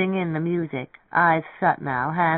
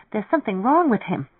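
shivering; 6 semitones higher than usual. A narrator's reading. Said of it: "she said, shivering".

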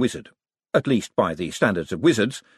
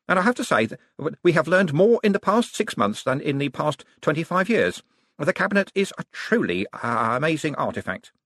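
higher voice, hesitant but eager; enthusiastic young wizard; 7 semitones higher than usual. Acted. Young wizard telling a visitor about the cabinet, eager. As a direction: marvel at it with little stumbles.

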